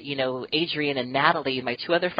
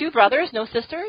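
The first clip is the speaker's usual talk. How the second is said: surprised; 10 semitones higher than usual. Real, not acted. Surprised question.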